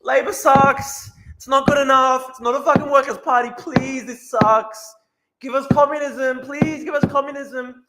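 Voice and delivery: high, loud mocking wail, stretched out; whining tankies. Streamer mocking communists who beg for communism, high hammed-up whine. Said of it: "the communists and the tankies going".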